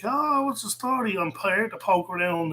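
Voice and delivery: lightly put-on nosy party crasher; nosy gatecrasher.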